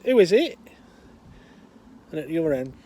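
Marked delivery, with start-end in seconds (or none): 0.0-0.6 put-on high, loud hard-of-hearing old woman; old woman calling. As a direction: call out like a half-deaf old lady. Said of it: "She goes".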